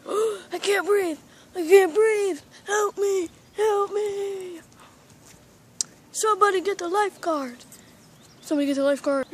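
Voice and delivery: a touch of mock gasping panic; panicked cries. Pet drowning in the pool, mild mock panicked cries. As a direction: beg for help, half-hearted drowning cries.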